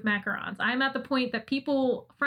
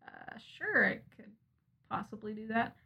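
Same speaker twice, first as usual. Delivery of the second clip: hesitant reply; 7 dB quieter than usual. Retold or imitated.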